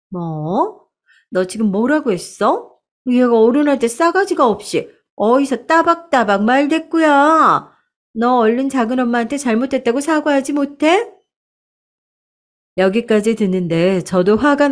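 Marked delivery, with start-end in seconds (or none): 0.1-11.1 lightly acted indignant aunt, rising into a scold; a touch of an offended elder snapping at a child; mock scolding aunt. Aunt demanding an apology from her niece, mildly acted angry scold.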